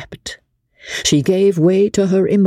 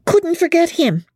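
mock outcry. A narrator's reading. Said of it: "cried out Becky".

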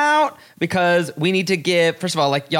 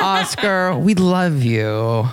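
mock gushing; much slower than usual. Mock-gushing to reviewer amid laughter.

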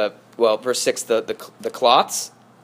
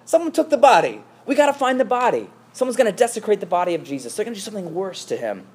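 frantic alarm; 7 semitones higher than usual. Acted. Preacher acts Mary finding the empty tomb, frantic. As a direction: panic over a missing body. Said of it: "Now she's like".

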